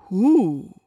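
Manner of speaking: long, loud drawn-out question; lightly voiced bear calling a question; asking bear. A narrator's reading. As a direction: ask as a storybook bear, stretching it out. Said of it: "And the bear asks".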